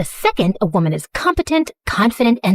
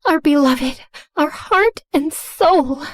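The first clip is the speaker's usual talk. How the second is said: reverent; 6 semitones higher, slower than usual. Acted. Worshipful cult chant about Arya.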